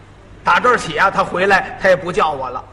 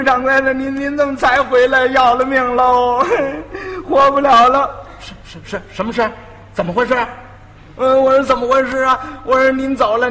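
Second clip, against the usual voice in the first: higher, louder whiny mock-sobbing plea; fake crying; 4 semitones higher, 4 dB louder than usual. Apprentice fakes tears to the master over the missing food, hammed-up and whiny. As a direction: put on a hammed-up weepy act. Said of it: "我，我就哭".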